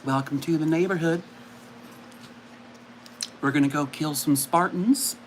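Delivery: lightly voiced gentle TV host; a hint of a soft kindly host; mild Mister Rogers impression. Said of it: "Mister Rogers doing it".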